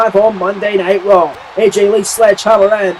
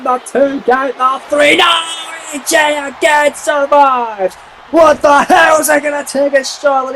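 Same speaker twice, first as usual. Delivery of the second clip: excited; 4 semitones higher than usual. Real, not acted. Near-fall call, live commentary.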